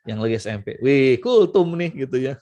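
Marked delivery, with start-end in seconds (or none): 0.8-2.1 slow, drawn-out mock; slow, teasing teenager's remark; teasing teen. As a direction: tease the parent about the sermon. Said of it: "anak saya tuh ngomong begini".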